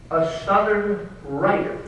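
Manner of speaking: Southern weighted over writer; a touch of stress on "Southern". Shown as a demonstration. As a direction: lean on the word Southern. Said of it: "with emphasis on the word Southern".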